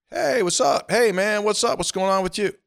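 high, cheery mock tailgate greeting; imitating friendly tailgater. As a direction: play the chummy fan hollering hello.

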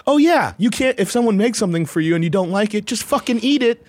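scoffing inner voice. Retold or imitated. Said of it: "you're like".

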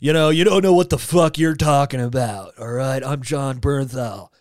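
lightly imitated tough actor; a hint of brooding movie tough guy; mock tough, slowing on the name; John Bernthal. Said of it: "looking up through his eyebrows like".

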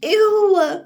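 high grossed-out ew; disgusted ew. Real, not acted. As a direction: recoil in disgust. Tasting the cookie.

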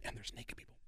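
hushed whisper. Retold or imitated. Agent describing the party to the comic, whispered. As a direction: breathe it out secretly.

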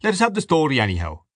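lightly amused, brisk request; smiling. A narrator's reading. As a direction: urge him on with a smile.

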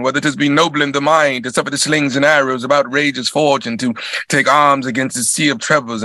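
Shakespeare recitation. Shown as a demonstration. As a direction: declaim it like a stage actor, then drift to a hush. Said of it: "I studied with the Royal Shakespeare Company".

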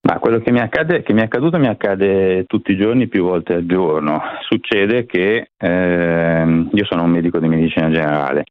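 panting after a run; out of breath. Real, not acted. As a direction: talk while catching your breath. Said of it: "Scusate il fiatone, ho fatto una corsa".

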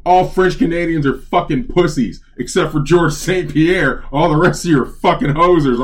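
imitated yelling. TV character yelling at French Canadians, imitated yell. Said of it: "one of the characters is yelling".

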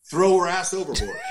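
teammate's hammed-up yelled advice; mock shout. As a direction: bark the joke out as the buddy.

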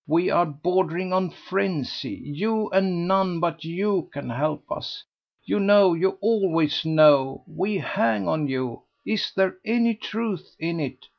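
a lady begging her rival for news; eager society lady. A narrator's reading. Lady Busshe begging Mrs Mountstuart for the truth, eager.

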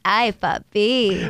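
slow, drawn-out flirty "Hi, Papi". Shown as a demonstration. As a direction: purr it out slowly. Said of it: "she has to say the I before".

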